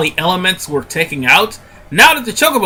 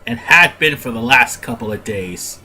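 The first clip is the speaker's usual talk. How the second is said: stuffy nose; 3 semitones lower than usual. Real, not acted. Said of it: "I sound like a radio D J because I'm, have, like, a stuffy nose".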